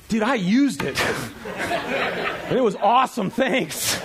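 laughing, breezy dude answer; mock casual reply. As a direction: shrug it off to Jesus with a laugh. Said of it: "we're gonna go".

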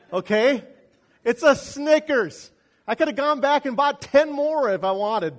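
loud, high emphatic point; loud and high, preaching at full force. Real, not acted. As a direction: drive it home to the congregation. Preacher driving home point.

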